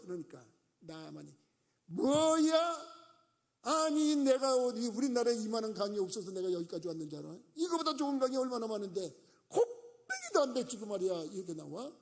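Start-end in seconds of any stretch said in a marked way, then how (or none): 1.9-11.2 loud, much higher, indignant ranting; angry outburst. Retold or imitated. General Naaman fuming at the prophet's message, loud angry rant. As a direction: blow up at the insult. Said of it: "막 화를 냈어요".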